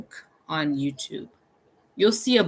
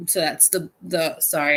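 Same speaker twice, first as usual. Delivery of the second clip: burping. Real, not acted. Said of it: "I'm burping".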